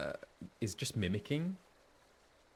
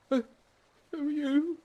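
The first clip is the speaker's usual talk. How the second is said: much higher, timid voice; a scared refugee asking warily; frightened refugee; 5 dB louder than usual. Acted. Refugee meeting strangers, higher timid voice.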